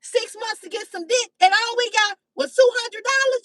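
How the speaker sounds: a touch of a mock cheated grumble; mild mock complaint. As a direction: complain like you were cheated, half-acted. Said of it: "Your pussy is even mad".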